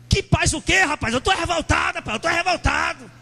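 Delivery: angry shouting believer. Retold or imitated. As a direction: yell it like a furious church member. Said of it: "Eu escutava isso aí".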